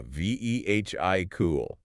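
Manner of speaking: "V E H I, cool" as vee-hick-ul; sounded H. Shown as a demonstration. Co-host echoing the tempting H, mispronunciation. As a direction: say "V E H I, cool" with audible H. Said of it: "we want to put that H in there".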